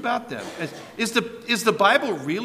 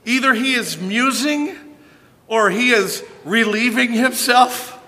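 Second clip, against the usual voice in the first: higher, louder sarcastic taunt; mocking; 6 semitones higher, 6 dB louder than usual. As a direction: rub it in with scorn. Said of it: "Elijah mocked them".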